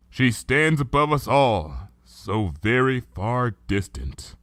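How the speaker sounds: lightly voiced princess, grave and reflective; Luna's regal voice, subdued. Luna explaining her rift with Celestia, sorrowful.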